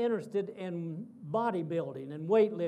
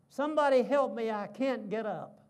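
loud, high pleading cry of a pinned man; crying out for help; 4 semitones higher, 6 dB louder than usual. Retold or imitated. Wrestler pinned by his son cries for help, loud and high. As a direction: call out for help, hammed-up and playful. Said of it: "And his daddy is saying".

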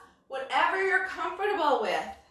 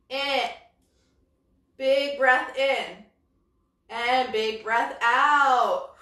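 slow breathing cue; slower than usual. Shown as a demonstration. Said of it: "When I bring it out, we're gonna breathe in".

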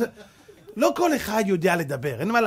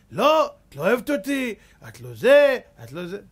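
angry accusing husband; 5 dB louder than usual. Retold or imitated. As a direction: accuse the wife hotly. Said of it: "איך אתה דיברת". (בעל מאשים את אשתו בכעס)

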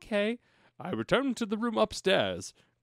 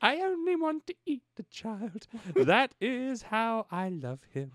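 mock villain wife; 6 semitones higher than usual. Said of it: "jokes as the vampire wife".

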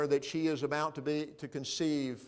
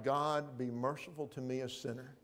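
mild humble plea; 5 dB quieter than usual. Acted. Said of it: "He cried out".

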